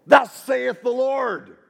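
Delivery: high, slow, loud pronouncement; drawn-out, ringing declaration from on high; booming proclamation. Acted. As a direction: proclaim it like a prophet. Mimicking an authoritative divine pronouncement.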